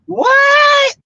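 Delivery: high, loud disbelieving what; shocked what. Real, not acted. Hearing the wife brought a young guy on the cruise: high shocked what. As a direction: gasp out your disbelief.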